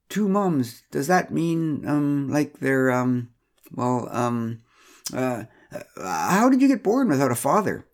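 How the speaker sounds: flustered Pamela. Acted. Pamela asking Megan about her two mums, mildly flustered. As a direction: fumble for words, then blurt it out.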